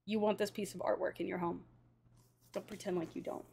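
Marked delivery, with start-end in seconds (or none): 2.5-3.4 breathless awed whisper. Real, not acted. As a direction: whisper it in awe. Hushed awe at the artwork.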